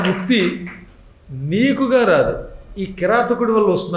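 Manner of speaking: a fearful plea to the master; troubled disciple. Acted. Disciple turning to his guru, fearful and pleading. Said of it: "గురువుగారి కేసు తిరిగి".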